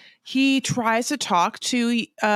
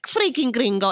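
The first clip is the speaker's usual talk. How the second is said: mock curse; 3 semitones higher than usual. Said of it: "It's like, yeah, like".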